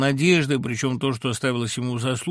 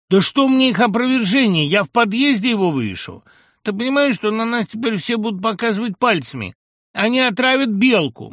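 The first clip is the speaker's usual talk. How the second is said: very high, loud shouting; hysterical mother; 10 semitones higher, 8 dB louder than usual. Acted. Mother hysterically shouting at her son on the phone, very high and loud. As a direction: scream it out in despair.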